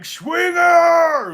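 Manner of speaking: loud, high call across the yard; shouting up at the house; yelling a name. Retold or imitated. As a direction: holler for your buddy to come out. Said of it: "I'd be like".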